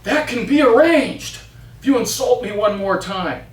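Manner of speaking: mild witch threat; threatening witch. Acted. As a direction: warn him sharply. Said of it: "the witch overhears and says".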